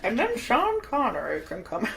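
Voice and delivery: terrible attempt at a Scottish star; badly faked Scottish accent; Sean Connery. Host attempting a film star for laughs, badly faked voice. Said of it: "That was the world's worst Sean Connery".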